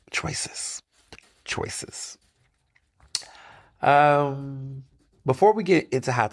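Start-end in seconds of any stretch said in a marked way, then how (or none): 0.1-2.2 soft repeated whisper. Real, not acted. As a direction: breathe the word out, fading. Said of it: "trailing whisper".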